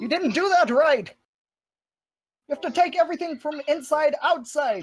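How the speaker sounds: high-pitched captain scolding; Grafford. Acted. Captain to crew who botched the bags, high scolding call. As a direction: correct the crew in an exasperated captain voice.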